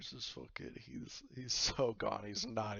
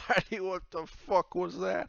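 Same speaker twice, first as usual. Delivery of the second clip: loud, high character voice; raised-voice outraged tavern captain; appalled captain; 9 semitones higher, 8 dB louder than usual. Acted. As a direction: demand it in drunken disbelief.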